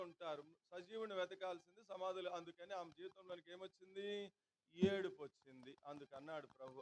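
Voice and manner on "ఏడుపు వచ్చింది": loud answer. Real, not acted. Preacher answers his own question.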